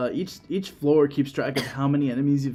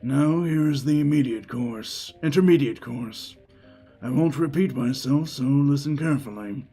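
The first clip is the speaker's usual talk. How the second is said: raspy Steiner. Acted. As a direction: lecture like a gruff old trainer. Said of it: "a little bit raspier Steiner".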